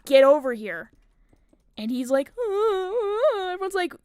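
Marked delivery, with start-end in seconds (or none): 0.1-0.9 louder call as Vanny, pushing on "get over here"; loud mock shout; retold scream. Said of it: "I scream, as Vanny". 2.4-3.5 high whining cry sounds; hammed-up high wail; mock crying wail. Steve reacts to being yelled at.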